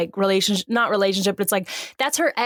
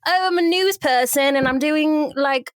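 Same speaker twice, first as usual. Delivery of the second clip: higher, mock-earnest newspaper woman; Kate Winslet; 3 semitones higher than usual. Iris announces her newspaper job, higher mock-earnest caricature. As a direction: send up a busy heroine at her typewriter. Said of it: "Kate Winslet's like".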